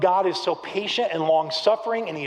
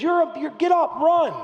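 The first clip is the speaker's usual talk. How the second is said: high, loud coach's order; mock angry drill order; retold furious coach; 11 semitones higher, 3 dB louder than usual. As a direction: imitate a fed-up coach sputtering into a command. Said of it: "He's so furious with us".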